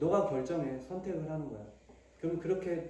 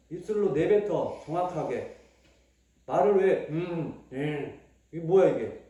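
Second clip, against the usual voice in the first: scolding; 7 dB louder than usual. Real, not acted. Parent scolding child at worship.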